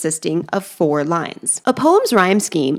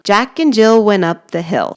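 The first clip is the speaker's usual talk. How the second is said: "Jack and Jill went up the hill" in a natural, slightly sing-song beat; sing-song rhythm; 4 dB louder than usual. Shown as a demonstration. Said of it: "that sing-songy rhythm".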